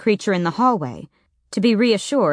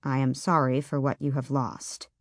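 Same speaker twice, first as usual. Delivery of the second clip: lower, softer, strangely altered knocker voice; voice not quite his; 4 semitones lower, 6 dB quieter than usual. A narrator's reading. Door knocker offering condolence, lower and softer, not quite himself. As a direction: sound like something else is speaking through you. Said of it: "in a voice that was not quite his".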